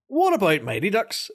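mock executive. Mocking executives pitching idea.

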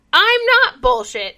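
high, indignant protest; high-pitched offended protest; mock indignant leader. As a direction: squeak out the denial. Leader protesting in retold scene.

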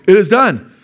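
preacher booms the final words; loud proclamation. Shown as a demonstration. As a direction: ring out it is done high and loud. Proclaiming the end.

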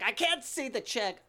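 high, slow mock complaint; flamboyant old man. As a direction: wail it as a showy old gentleman. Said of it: "so extravagant and flamboyant".

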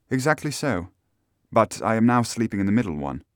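lightly voiced lady answering questions; hint of a gentlewoman's voice; Miss Stoner, cooperative client.

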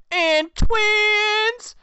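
high, loud squeal of glee; mock excited squeal. Mocking the movie cop, a high loud squeal. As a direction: squeal it like a thrilled sleazy cop.

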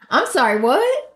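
what jumps high in a disbelieving question; shocked disbelief. Real, not acted. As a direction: stop and demand what in real disbelief. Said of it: "got me fired up".

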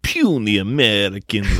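put-on slow, over-the-top Russian villain accent; exaggerated Russian character voice, drawn out; hammed-up Russian accent. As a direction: ham it up with a thick mock Russian accent. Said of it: "it's just a really hammed up".

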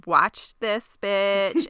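drawn-out, pursed-lip smug line; slow and smug, daring everyone to watch; sassy slow quip. Retold or imitated. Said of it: "she purses her lips like".

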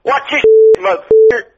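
redneck shout. Pretend. Mock redneck last words.

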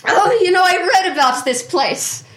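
The speaker in character. Acted.

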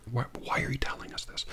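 mock aside in a whisper; sarcastic whispered aside. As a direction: hiss it under your breath at the writer.

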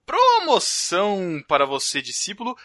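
televangelist preacher voice; Edir Macedo. Pretend. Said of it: "você tá falando igual Edir Macedo".

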